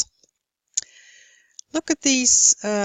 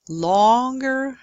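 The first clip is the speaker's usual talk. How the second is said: drawn-out word. Shown as a demonstration. Teacher shows learners emphasis by length, drawn out. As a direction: stretch out the vowel of longer. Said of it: "We emphasize syllables and words".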